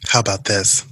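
low, smooth radio host voice; sexy radio voice. Real, not acted. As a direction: lean into the mic like a late-night DJ. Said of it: "you have a really sexy radio voice".

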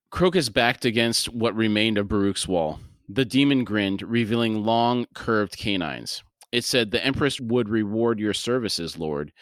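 measured audiobook-style reading; story narration. A narrator's reading. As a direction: read the scene aloud in deliberate phrases. Reads the novel aloud.

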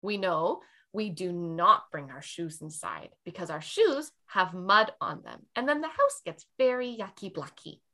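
slow, soft, patient explaining; calm voice to her toddler. Retold or imitated. Mother calmly explains the muddy-shoes rule to her toddler, slow and soft. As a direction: gently lay out the rule to a two-year-old. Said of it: "I sit him down and say".

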